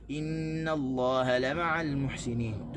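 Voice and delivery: slow, stress on "la" in "la ma'al"; "la ma'al" recited slowly with the stress wrongly on "la". Shown as a demonstration. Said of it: "style kita baca". (tekanan salah pada "la")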